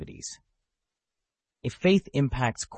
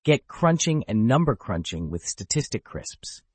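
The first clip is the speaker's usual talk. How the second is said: upbeat retro commercial read; chipper 1950s ad. Acted. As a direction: sell it like an old TV ad. Ad slogan.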